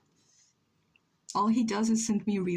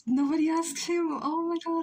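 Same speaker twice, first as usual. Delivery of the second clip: indignant; 8 semitones higher than usual. Real, not acted. Indignant about guy.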